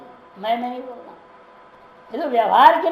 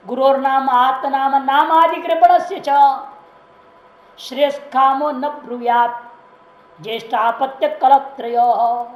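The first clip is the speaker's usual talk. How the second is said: measured chant of a scripture verse, drawn out; Sanskrit verse recitation; 4 dB louder than usual. Acted. Sadhu recites the verse to his listeners, slow solemn chant. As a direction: intone the shloka slowly like scripture.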